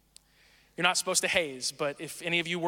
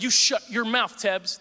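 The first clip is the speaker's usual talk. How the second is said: somewhat louder stern order; mock frat threat; 3 semitones higher, 3 dB louder, slower than usual. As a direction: threaten the pledge over the phone. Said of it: "I said".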